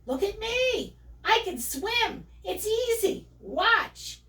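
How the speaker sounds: high, excited little piglet voice; excited calling. Acted. Swimming piglet calling to his mother, excited. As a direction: show off proudly in a high voice.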